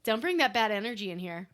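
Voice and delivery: calm, laid-back imitation of a clerk; super chill. Shop clerk warding off bad vibes, super calm. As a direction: deliver it evenly, totally unbothered. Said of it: "explaining things all super calmly".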